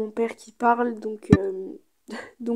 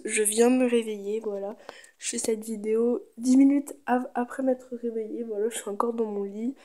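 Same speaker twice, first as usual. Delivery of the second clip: morning voice. Real, not acted. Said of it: "J'ai la voix du matin".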